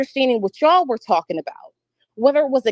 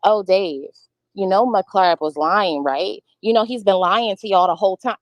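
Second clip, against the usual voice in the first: mock accusing; 4 semitones lower than usual. Shown as a demonstration. The speaker mimicking the accusation she denies making, knowing and leading. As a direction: lead him as if you already know the answer. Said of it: "It's not me like".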